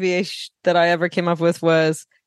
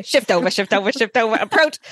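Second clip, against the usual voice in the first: imitating line guy; 4 semitones higher than usual. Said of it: "he was just repeating".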